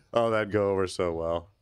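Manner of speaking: mock cheerful sarcasm; sarcastic. Real, not acted. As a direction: say it so they know you mean the opposite. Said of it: "That's sarcasm".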